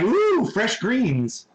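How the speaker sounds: slow, drawn-out swooping "ooh"; delighted dog. Retold or imitated. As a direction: savor it like a greedy dog. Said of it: "He's like".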